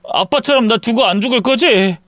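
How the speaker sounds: high, pleading check on 안 죽을 거지; worried son asking for reassurance; anxious question. Acted. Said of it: "갑자기 떠나버릴까".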